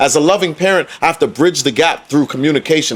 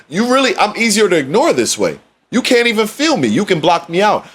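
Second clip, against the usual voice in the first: higher voice with the bass taken out; voice without bass; 6 semitones higher than usual. Shown as a demonstration. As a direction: lift the voice up out of the chest. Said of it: "when I'm speaking like this".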